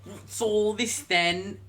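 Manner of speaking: slow hammed-up cockney copper; mock British bobby, laughing. Game master to player, slow laughing cockney copper. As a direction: drag out the policeman catchphrase.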